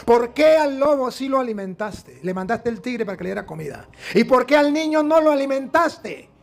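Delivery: reproche alto y lento a Dios; reclamo furioso. Acted. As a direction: exige cuentas con rabia. (el hombre le reclama a Dios, indignado y alto)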